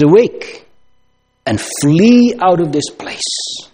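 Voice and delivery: high, loud cry of alarm; urgent warning call. Retold or imitated. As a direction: call out to wake them and flee. Lot urging sons-in-law to flee.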